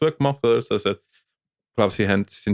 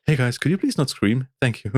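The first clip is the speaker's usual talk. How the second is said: passive-aggressive request; 3 semitones higher than usual. Retold or imitated. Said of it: "ein bisschen passive-aggressive".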